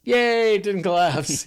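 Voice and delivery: lightly cheering relief; relieved cheer. Retold or imitated. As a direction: celebrate like a kid. Relief after landing.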